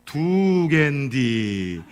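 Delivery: very slow, drawn-out Chungcheong drawl; 느릿한 충청도 사투리; slow Chungcheong punchline. Retold or imitated. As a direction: stretch each syllable in Chungcheong dialect. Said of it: "아들이 피 흘리는 아버지를 향해서 그렇게 얘기했다면서요".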